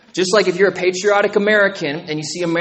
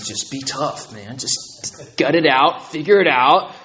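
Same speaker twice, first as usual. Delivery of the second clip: tough coach; 3 semitones lower, slower than usual. Retold or imitated. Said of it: "if you guys know Coach Weiberg".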